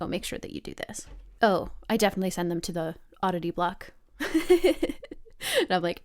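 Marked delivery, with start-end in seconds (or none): 0.0-1.1 quick whispered aside, much softer; a hushed, rushed recommendation to the companion; whispered tip. Acted. 4.2-5.5 high laugh. Real, not acted. Laugh after oddity block mention.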